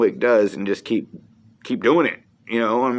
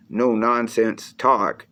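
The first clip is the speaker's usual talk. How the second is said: drawn out; much slower than usual. Real, not acted. Pitching his channel.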